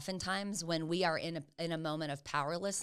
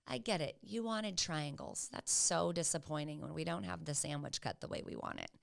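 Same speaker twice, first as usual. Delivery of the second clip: softer, slow reassuring voice; slow down and soothe a disappointed child; calm validating; 5 dB quieter than usual. Shown as a demonstration. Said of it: "slow yourself down and say".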